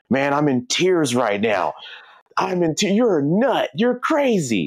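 cracking up, rising. Retold or imitated. Uncle reacting, laughing hard.

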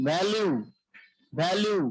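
ভ্যালু opening on a voiced V; ভ্যালু as a careful example word; demonstrating V. Shown as a demonstration. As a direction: model ভ্যালু with vocal cords buzzing on V. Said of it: "ভিতে ভ যদি উচ্চারণ করি".

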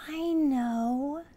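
high, eager storybook voice; excited little elf. Acted. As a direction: exclaim it like an elf with a bright idea. Elf has sudden realisation.

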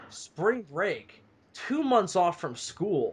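slow, incredulous repeat; disbelief. Real, not acted. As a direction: drag it out in disbelief. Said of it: "Who are these lucky motherfuckers".

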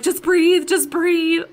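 high, loud imitation of urgent coaching; urgent reassurance. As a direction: imitate someone talking a panicker down. Acting out ex-husband calming her down.

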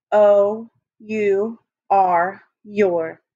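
O U R spelled very slowly, letter by letter; slow spelling. Shown as a demonstration. Teacher leading the class in slowly spelling your. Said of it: "let's write your".

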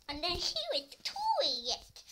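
high, slow, laughing. Real, not acted. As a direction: giggle through it. Laughing presenting the toilet.

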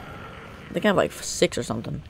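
soft, breaking voice as if near tears; voice cracking. Real, not acted. Player counting pearls at home, voice accidentally cracking. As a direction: let the voice give out softly. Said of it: "It sounds like I'm gonna cry".

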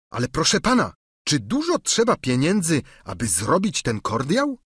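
a hint of a simple, chatty squire; Sancho's voice. A narrator's reading. Sługa Sancho tłumaczy się panu, lekko wyżej i gorliwie.

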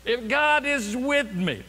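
high, slow, pointed protest; exasperated challenge. Acted. Gideon challenging the messenger, exasperated. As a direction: stretch it out as a sceptical challenge.

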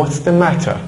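crisp British English, clear t in matter; British accent. Shown as a demonstration. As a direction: say 'matter' the British way with a sharp t. (با لهجهٔ بریتیش، t در matter واضح)

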